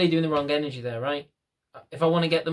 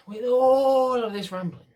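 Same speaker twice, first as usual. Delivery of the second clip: much higher and slower, drawn out; high self-mocking; 10 semitones higher, 5 dB louder, slower than usual. Real, not acted. Vlogger mocking his own long rambling, high and slow. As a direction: stretch it up high as a joke at yourself.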